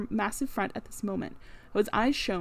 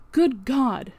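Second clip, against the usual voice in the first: faint cry; 3 semitones higher, 6 dB louder than usual. A narrator's reading. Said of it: "cried faintly".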